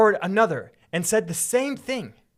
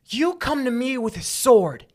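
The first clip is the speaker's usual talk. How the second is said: David; 7 semitones higher, 6 dB louder than usual. Acted. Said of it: "I'll be David".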